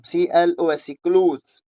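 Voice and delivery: क्लोज said as klooz after spelling it out; spell, then say क्लोज as klooz; teacher drill; pronunciation demo. Shown as a demonstration. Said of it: "इसका क्लोज पढ़ेंगे हम".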